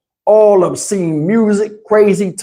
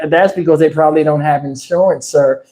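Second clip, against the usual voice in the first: 1 bored operator; 5 semitones lower than usual. Retold or imitated. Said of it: "They like".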